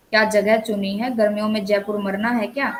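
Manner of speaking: mildly objecting rhetorical questions; disagreement. Shown as a demonstration. Teacher voices a family member against a summer trip, mild disagreement. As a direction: object lightly to the chosen place. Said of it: "असहमति".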